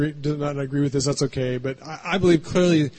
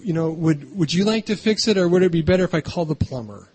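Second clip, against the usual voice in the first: sweet wife voice. Shown as a demonstration.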